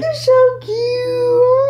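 high, slow squeezed-out coo. Real, not acted. Mother adoring her baby's cuteness, high coo.

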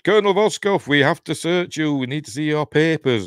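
high-pitched mock Russian soldier; officious soldier in a put-on Russian accent. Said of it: "other people are putting Russian accents on".

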